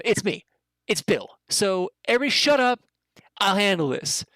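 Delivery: high, cocky goblin bragging; smug goblin. Acted. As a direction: claim the room like a self-important goblin. Bill the goblin asserts himself.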